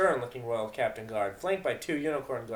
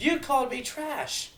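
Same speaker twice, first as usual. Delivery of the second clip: angry retort; 5 dB louder, slower than usual. Acted. Mares arguing.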